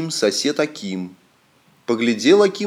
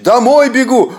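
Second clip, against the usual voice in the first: high, loud yell on the run; shout; 9 semitones higher, 6 dB louder than usual. A narrator's reading. Akim shouting to his sons as he runs, shout. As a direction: call back while running. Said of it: "кричит".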